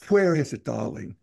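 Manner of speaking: lightly put-on mid-Atlantic accent, old-movie style. Mocking old-movie dialogue in a light mid-Atlantic accent. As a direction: toss it off like a mild mid-Atlantic film star. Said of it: "You know, this kind of thing".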